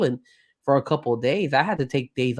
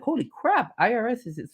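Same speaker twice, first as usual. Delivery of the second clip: retold surprise; 10 semitones higher than usual. Retold shock at learning news.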